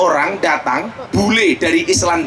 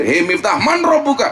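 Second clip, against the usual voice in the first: high-pitched questioning on "man robuka"; a hint of an interrogating angel, rising high; lightly voiced angel; 4 semitones higher than usual. Angel Munkar Nakir questioning Miftah in the grave, lightly acted interrogation. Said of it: "saya ditanya sama Munkar Nakir".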